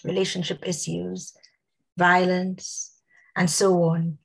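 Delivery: slightly hoarse, voice fading. Real, not acted. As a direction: talk with a tired, husky throat. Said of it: "losing my voice a bit".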